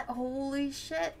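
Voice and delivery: slow, drawn-out realization; stretched words, close to tears; stunned disbelief. Real, not acted. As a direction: let it dawn on you slowly. Stunned that character is alive.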